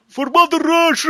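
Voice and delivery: high, loud mock war shout; hammed-up battle cry for Mother Russia. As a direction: yell it like charging soldiers. Charging in with flag.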